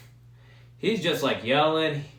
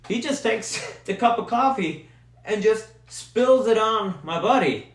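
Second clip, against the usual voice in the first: high, laughing retelling; cracking up mid-story, pitch lifted; 8 semitones higher, 4 dB louder than usual. Real, not acted. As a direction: tell it through real laughter. Cracks up retelling the coffee throw.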